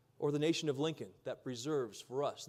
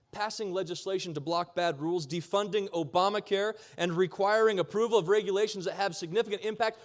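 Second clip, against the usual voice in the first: escalating comedy rant; 2 semitones higher, 4 dB louder than usual. Real, not acted. Rally close, rising applause line.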